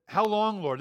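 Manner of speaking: a lament lifted toward heaven; calling out. Retold or imitated. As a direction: cry out How long, Lord in anguish. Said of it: "this is Habakkuk calling out".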